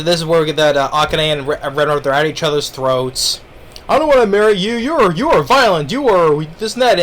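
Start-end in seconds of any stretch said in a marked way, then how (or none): 3.9-7.0 mock angry rant. Couple at each other's throats.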